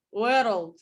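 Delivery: "world" with an extra syllable from a tapped r; Scottish rolled r. Shown as a demonstration. Teacher repeats the Scottish "world" for students. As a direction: tap the r in "world" and add a beat. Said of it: "It's like adding an additional syllable".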